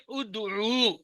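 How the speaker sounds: ادعو starting with a short "u"; pesh on hamza. Shown as a demonstration. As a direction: open ادعو on a clear "u" vowel. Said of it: "یہ پیش کیوں ہے؟".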